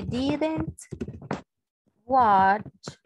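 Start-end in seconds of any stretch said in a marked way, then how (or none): 2.0-3.0 watch said loud and set apart; stress on watch. Shown as a demonstration. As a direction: punch watch without the ED. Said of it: "a good movie". (watch fuerte y separado)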